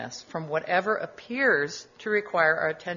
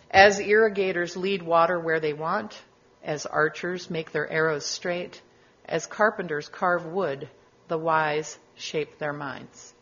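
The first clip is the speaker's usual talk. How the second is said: put-on slow, measured recitation of an old verse; reading a verse; 4 dB louder, slower than usual. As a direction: let each line land like a chant. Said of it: "here's one verse".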